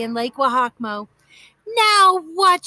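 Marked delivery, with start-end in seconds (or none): 1.6-2.6 higher, louder irritated demand. A narrator's reading. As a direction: snap the question at her sister. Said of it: "she demanded".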